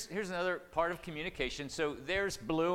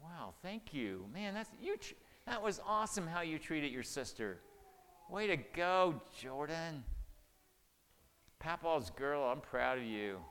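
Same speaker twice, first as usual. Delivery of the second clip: praising grandchild; 2 semitones higher than usual. Retold or imitated. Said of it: "I go".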